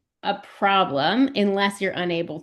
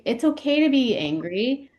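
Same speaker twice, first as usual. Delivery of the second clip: gentle parent voice; 5 semitones higher than usual. Retold or imitated. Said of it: "told with our parents' voices".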